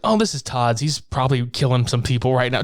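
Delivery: retold in an offhand way; nonchalant. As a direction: imitate an unbothered, casual answer. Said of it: "Just so nonchalant".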